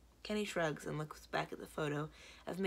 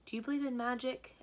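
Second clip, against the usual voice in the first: tentative; 7 semitones higher, 3 dB louder than usual. Acted. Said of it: "I ask tentatively".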